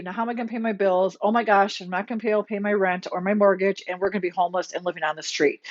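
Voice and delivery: fast, rising panic, words tumbling; anxious rush. Retold or imitated. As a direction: rattle off the worries in a hurry. Acting out anxious spiraling thoughts.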